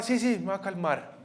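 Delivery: put-on high child's voice giving in; pleading little boy. Soaked son to his father, high pleading promise. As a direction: imitate a son hastily promising.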